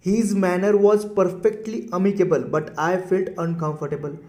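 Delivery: very slow, deliberate sentence read with long pauses; slow example reading. Shown as a demonstration. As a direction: dictate the sentence to the class. Reads example sentence slowly. (धीमे-धीमे वाक्य पढ़ना)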